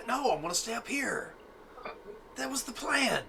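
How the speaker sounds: high, strained-up character voice; high-pitched in-character protest; high-voiced reply. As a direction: pitch it way up at normal volume. Acting out character on rooftop.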